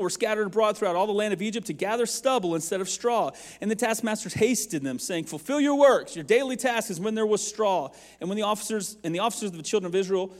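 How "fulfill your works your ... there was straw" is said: higher, louder barked order; taskmaster shout. Acted. Taskmasters yelling at Hebrew slaves, loud and harsh. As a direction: drive the slaves with a yell.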